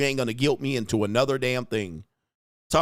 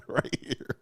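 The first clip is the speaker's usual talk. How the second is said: whispered aside; 7 dB quieter than usual. Real, not acted. Pointing at the door, he whispers the words. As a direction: whisper it under the breath.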